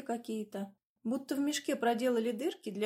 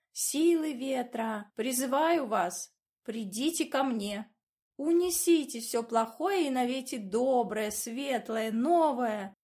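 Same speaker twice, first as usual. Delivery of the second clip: mock incantation; 3 semitones higher, 4 dB louder, slower than usual.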